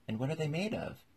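high, keenly curious question; great curiosity. A narrator's reading. Alice asks the Griffin about undersea shoes, very curious. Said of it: "in a tone of great curiosity".

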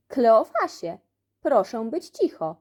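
shout. Acted. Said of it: "krzyknął Ananiasz".

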